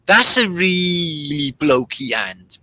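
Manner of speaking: mock commenter whisper. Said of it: "everybody came in with".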